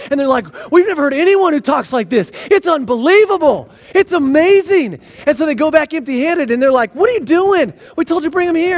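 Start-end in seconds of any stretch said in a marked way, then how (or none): 0.7-5.0 higher, mildly excited retelling; acted amazement. Officers reporting back on what they heard Jesus saying, amazed. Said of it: "and they're compelled". 6.9-8.8 higher-pitched mock exasperation; acted frustration. Priests to officers who came back empty-handed, frustrated. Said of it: "just all frustrated".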